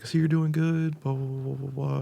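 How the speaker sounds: mock high-voiced catch-up chatter; high-pitched quote. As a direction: quote her high and loud, easing off into the blahs. Acting out friend's reconnecting message.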